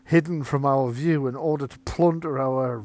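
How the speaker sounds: suspicious apprentice jumping on proof; accusing Magnus. Acted. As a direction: press the accusation loudly. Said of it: "Magnus is like".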